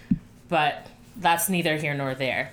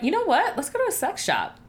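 excited; 8 semitones higher, faster than usual. Retold or imitated. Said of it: "So we're like".

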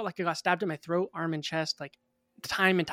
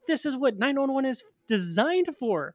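enraged; 7 semitones higher than usual. Retold or imitated. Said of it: "I was full of rage".

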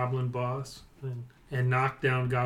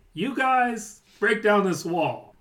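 goblin boss; 8 semitones higher, 5 dB louder, slower than usual. Acted. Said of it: "And then he's like".

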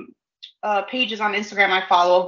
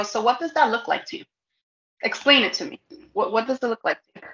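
deadpan challenge; 4 dB quieter, much faster than usual. Retold or imitated. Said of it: "I look at them dead in their face and I go".

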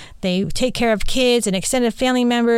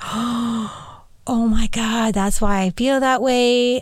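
sudden realization; 3 semitones higher, much slower than usual. Retold or imitated. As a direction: breathe it out as it dawns.

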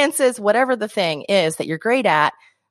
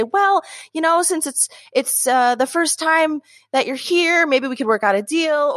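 mock nervous hemming; 5 semitones higher than usual. Vendor nervously dodging the price to a customer, mock hesitant. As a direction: hem and haw, unsure of your own price. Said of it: "hem and haw and get all nervous".

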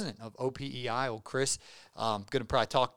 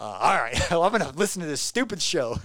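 mock grudging, laughing; 3 semitones higher, 5 dB louder than usual. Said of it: "they're like".

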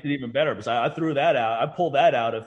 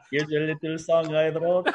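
laughing, mock Indian accent on the line. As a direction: sing it with a put-on Indian accent. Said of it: "What is that accent?".

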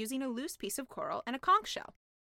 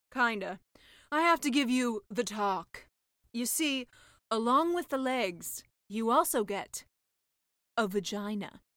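slow, louder knowing witch; sea witch lecturing; 5 dB louder than usual. Acted. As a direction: explain it like an older sister. Sea witch gives the talk.

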